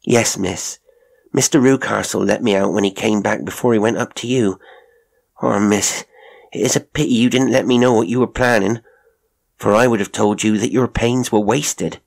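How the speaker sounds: a hint of a plain-spoken housekeeper, regretful; lightly voiced servant woman. Mrs Toller explaining to Miss Hunter, lightly voiced servant woman. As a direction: lightly play a servant answering her young miss.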